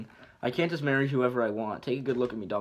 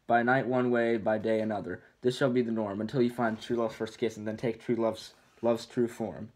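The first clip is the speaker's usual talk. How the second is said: recited spell. Acted.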